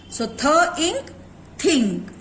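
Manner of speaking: slow "th ink" then "think", joined; sound blending. Shown as a demonstration. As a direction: stretch "th ink" apart, then join as "think". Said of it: "टीएच को हम कैसे pronounce करेंगे?". ("th ink" धीरे-धीरे, फिर "think" जोड़कर)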